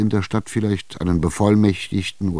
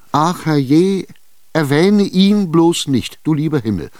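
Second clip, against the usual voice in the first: put-on higher and louder, terrified old woman; frightened cry; 10 semitones higher, 6 dB louder than usual. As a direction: shriek at the mention of the devil. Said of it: "schrie sie und wurde blass". (erschrockener Aufschrei, höher und lauter)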